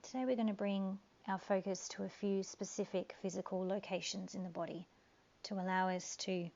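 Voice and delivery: calm guiding voice with long pauses; guided meditation. Acted.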